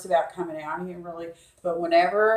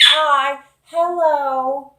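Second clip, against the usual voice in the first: parrot greeting; 7 semitones higher, 6 dB louder, much slower than usual. Retold or imitated. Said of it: "He says".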